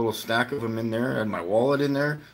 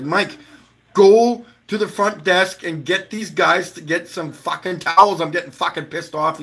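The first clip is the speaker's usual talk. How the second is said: higher and louder, annoyed; angry demand; 4 semitones higher, 4 dB louder than usual. Retold or imitated. Mac angrily sending Mike for towels, retold with heat.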